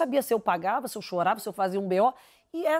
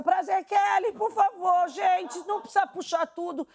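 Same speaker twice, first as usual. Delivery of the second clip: mock plea; 6 semitones higher than usual. Retold panicked plea to Kelly.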